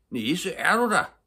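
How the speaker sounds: high, loud, drawn-out anxious call; anxious shout. A narrator's reading. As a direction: call out fearfully for someone. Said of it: "råbte han ængsteligt".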